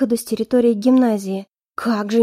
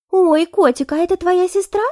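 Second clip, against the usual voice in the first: put-on much higher, sugary girlish voice; cooing blonde; 7 semitones higher than usual. Blonde turns to the sister, high and cooing. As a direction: coo with fake sweetness.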